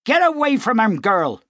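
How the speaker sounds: mother yells her daughter back; sharp shout. Acted. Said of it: "shouted the older woman".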